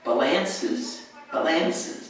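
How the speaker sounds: balances twice, stress on LAN; wrong stress. Shown as a demonstration. Teacher repeats the wrong stress for students. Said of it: "doesn't even sound like balances".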